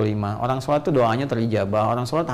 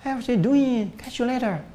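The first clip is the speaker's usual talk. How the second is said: high-pitched imitation of an English speaker; put-on English accent, voice raised; 10 semitones higher, slower than usual. Shown as a demonstration. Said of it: "Bahasa Inggris kayak orang Inggris".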